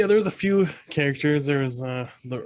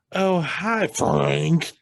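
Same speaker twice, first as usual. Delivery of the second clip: high-pitched put-on hello; mock date greeting; 4 semitones higher, much slower than usual. Date showing up to meet dad, hammed-up greeting. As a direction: imitate a gushing date, pitched up.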